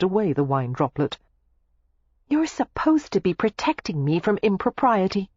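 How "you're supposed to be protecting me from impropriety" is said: grinning. A narrator's reading. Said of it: "she said with a grin".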